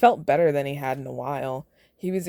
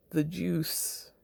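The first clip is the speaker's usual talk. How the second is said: conspiratorial whisper; 8 dB quieter than usual. Real, not acted. Joking aside about medicine.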